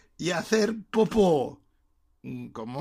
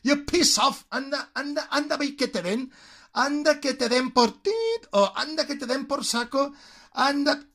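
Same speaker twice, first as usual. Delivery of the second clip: higher, dismissive shoo; hammed-up brush-off, go on, get lost; mock telling off; 5 semitones higher than usual. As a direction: wave someone off with mock scorn. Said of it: "send someone to piss off".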